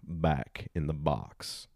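slow Southern drawl, movie one-liner; Southern accent. Acted. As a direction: draw out each word in a mock Southern accent. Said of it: "one-liners that are very Southern".

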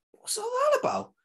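put-on a kid's stunned high-pitched question; baffled. Kid baffled to his mates.

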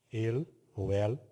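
"El ou El" slowly, as two variant pronunciations; alternative pronunciations. Shown as a demonstration. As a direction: give both forms of "El", unhurried. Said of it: "uma das formas de você dizer".

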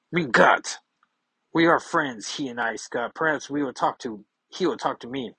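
put-on wistful Nightcrawler in a German accent. Kurt voiced in comic reading.

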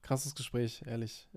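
whispering. Real, not acted. Quiet reflection at end.

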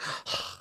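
soft mock-dramatic breath out; dramatic sigh. Friend mimicking the actress's pose, dramatic sigh. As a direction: strike a pose with a quiet theatrical sigh. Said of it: "like, so dramatic".

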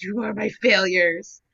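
mock dramatic. Drunk talking to turnovers.

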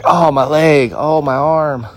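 hammed-up old-timer groans; whiny old guys. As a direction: imitate complaining old men. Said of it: "But they're like".

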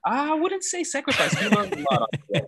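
high, loud protest, then a quick rush; emphatic objection. Real, not acted. Guest rejecting the host's word sacrifice, emphatic. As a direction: push back hard on the word.

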